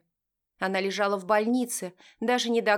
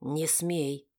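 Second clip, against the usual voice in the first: low warning hiss; 4 semitones lower than usual. A narrator's reading. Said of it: "мужчина перехватил за руку и процедил".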